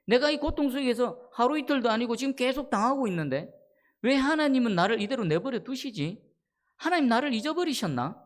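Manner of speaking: wondering aloud, aggrieved at being forgotten by God; lament. Acted. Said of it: "다윗이 하나님께 탄식하는데".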